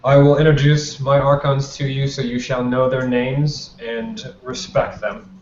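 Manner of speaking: lightly acted dignitary addressing the room; formal announcement. The Justicar presents new Archons to the gala, lightly formal address. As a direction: announce it with measured authority. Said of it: "He goes".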